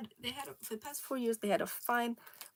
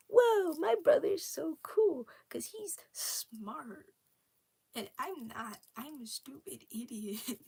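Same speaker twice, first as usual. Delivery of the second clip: awestruck dim brother; 5 semitones higher, 6 dB louder, slower than usual. Acted. Voicing the admiring dim brother.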